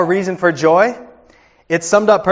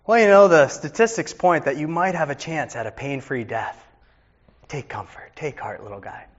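mock false comfort; 3 dB quieter than usual. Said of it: "What do you say to a kid".

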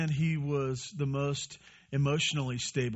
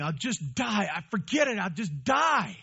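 higher, mock-melodramatic wail; overdramatic whine; 5 semitones higher than usual. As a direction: ham up the prophet's theatrical despair. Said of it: "Jonah says this incredibly dramatic thing".

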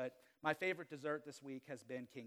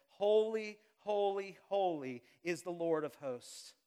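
loud proclamation; 3 semitones higher, 6 dB louder than usual. Acted. Preacher voicing seraphim crying out loudly.

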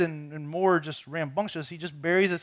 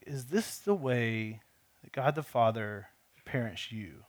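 slow, softer, gentle question; gentle inner voice; 4 semitones lower, 5 dB quieter than usual. Retold or imitated. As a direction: ask it gently, like a quiet nudge. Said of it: "very gently just whispers in my ear".

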